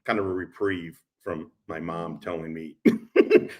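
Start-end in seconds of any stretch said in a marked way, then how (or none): 2.8-3.5 much higher, slow, put-on voice of a warning mother; mocking mom voice. Son mimicking his mother's warning about the world, high and slow. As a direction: mimic mom's doom-laden warning, drawn out high.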